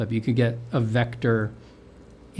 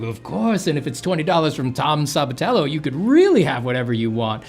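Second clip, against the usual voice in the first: fawning waiter; 4 semitones higher, 4 dB louder than usual. Retold or imitated. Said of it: "be like".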